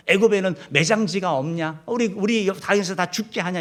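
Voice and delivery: retold complaint. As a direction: imitate a crowd griping at their leader. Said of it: "이렇게 계속 원망, 불평하게 된". (불평하며 몰아붙이는 흉내)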